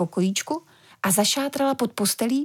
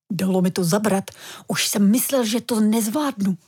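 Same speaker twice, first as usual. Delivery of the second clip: mild enthusiasm. Acted. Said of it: "vykládal děda nadšeně".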